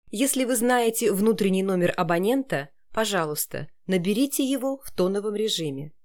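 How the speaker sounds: even automated phone menu read. Shown as a demonstration. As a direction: read it like a call centre prompt. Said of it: "А как нужно вам?".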